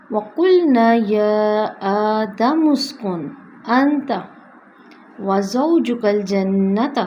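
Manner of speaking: slow chanted Tajweed; teacher recites the verse; Quranic recitation. Shown as a demonstration.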